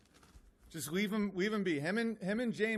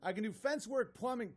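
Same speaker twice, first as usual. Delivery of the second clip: lightly higher mock-indignant read; mocking email reading; 3 semitones higher than usual. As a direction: read his boasts to ridicule them. Reads the critic's email mockingly.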